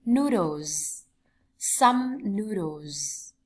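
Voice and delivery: careful model pronunciation of "Noodles"; phát âm mẫu. Shown as a demonstration. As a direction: draw out "Noodles" for learners. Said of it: "lưu ý cách phát âm". (phát âm mẫu rõ từng từ "Noodles")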